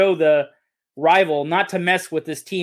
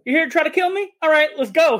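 mock cannibal queen; 10 semitones higher than usual. Describing the cannibal queen challenging Beowulf, taunting high voice. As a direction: toy with the hero as the poison queen. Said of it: "She's like".

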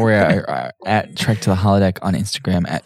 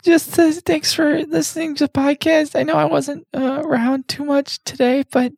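high synthetic computer voice. Acted. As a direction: speak as the ship's computer. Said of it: "the Jan voice".

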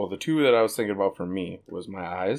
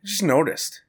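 higher and louder teasing accusation; a mock jealous classmate; playful girl voice; 7 semitones higher, 7 dB louder than usual. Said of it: "She goes".

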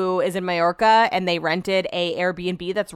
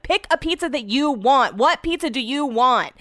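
impatient, pressing, a bit higher; raised voice; 5 semitones higher than usual. Retold or imitated. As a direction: demand an answer, exasperated. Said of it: "I was raising my voice".

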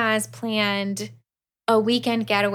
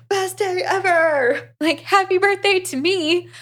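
gleeful; 9 semitones higher, 3 dB louder than usual. Retold or imitated. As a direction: savour it like the best gift ever. Keaton thrilled at the offer.

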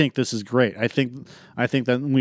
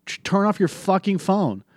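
higher, mock-angry yell at a kid in a cinema; retold telling-off; 8 semitones higher than usual. Retelling scolding a kid filming the movie, mock yell. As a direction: snap it like you're reliving the annoyance. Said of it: "and I'm like".

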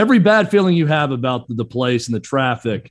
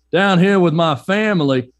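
put-on Brian Kelly's Southern accent; 4 semitones higher than usual. Host mocking coach's put-on Southern family, Southern accent. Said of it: "just perfectly normal Midwestern accent".

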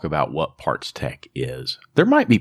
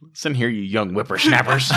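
put-on old prospector; 4 semitones higher than usual. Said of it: "Dutch is going to comment".

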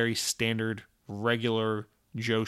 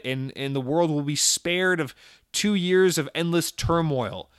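lightly acted pleading, emphasis rising as the stakes grow; urgent plea. Visiting doctor begs Jesse to stop the coronavirus, mock urgent pleading.

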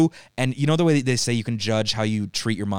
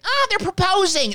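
very high, louder gushing American; mock American tourist; 5 dB louder than usual. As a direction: tease tourists with a squealy American voice.

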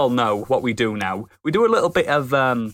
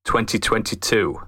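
announcer voice; 2 semitones lower than usual. Acted. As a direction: intone it like a movie trailer. Dramatic podcast intro read.

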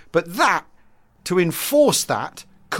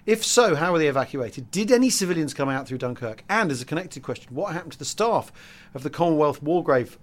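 reading aloud; 5 dB quieter than usual. Acted. Reads out a listener's question.

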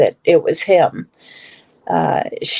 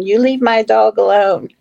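mild retold holler; 3 semitones higher than usual. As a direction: retell a holler at restrained volume. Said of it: "I was hollering at him".

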